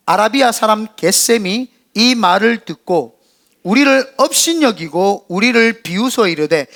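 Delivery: slow, measured congregational reading; deliberate recitation with drawn-out phrases; scripture reading aloud. Real, not acted. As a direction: lead the congregation through the verse, slowly.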